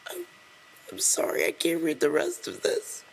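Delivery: choked, half-breathed apology through tears; stopping because the tears win; tearful apology. Real, not acted. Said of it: "This is so sad".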